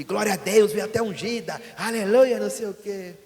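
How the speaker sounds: high, sing-song praise, half sung; overjoyed churchgoer. Retold or imitated. New cooperator thanking the preacher for the tie, high sing-song praise. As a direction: gush like a thrilled new helper handed a tie.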